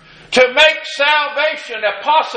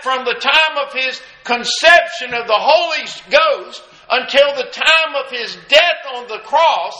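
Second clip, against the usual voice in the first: ordinary talk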